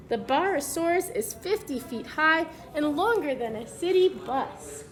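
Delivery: put-on clear, even storybook read-aloud for kids; reading to children. Teacher reads the book to the class, storybook read-aloud voice.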